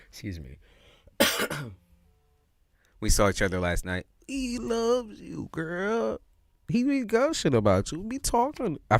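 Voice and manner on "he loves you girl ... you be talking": excited gushing. Real, not acted. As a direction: squeal the good news at her.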